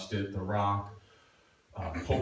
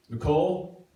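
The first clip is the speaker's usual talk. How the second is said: 1 dad calling out; 3 semitones higher, 5 dB louder than usual. Retold or imitated. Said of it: "He's like".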